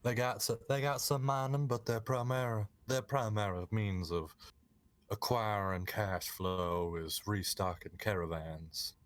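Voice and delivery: game master setting the scene in mild Southern; Southern accent. Acted. Game master describing Clifton to players, Southern accent. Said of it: "multiple of us talking in Southern accent".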